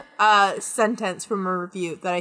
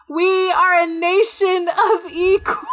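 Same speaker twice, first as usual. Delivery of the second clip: slow, raised, pompous toast; mock grand toast; 7 semitones higher, 3 dB louder than usual. King raising a glass, a hammed-up pompous toast. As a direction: proclaim it like a smug king. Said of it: "raises a glass and goes".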